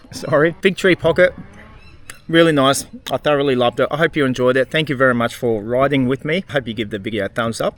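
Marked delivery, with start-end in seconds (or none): 0.1-3.9 talking with a mouthful; chewing while talking; mouth full. Real, not acted. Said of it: "I'm just gonna talk with my mouth full".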